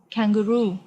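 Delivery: KANGAROO said the English way, hard k at the start; English pronunciation. Shown as a demonstration. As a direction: say "kangaroo" as an English word, clear k. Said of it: "It is pronounced like".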